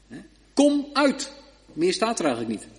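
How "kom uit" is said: higher, louder sharp command; gebiedend bevel. Acted. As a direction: order the dead man out. Jezus' bevel herhaald. (luid, hoog gebiedend: kom uit)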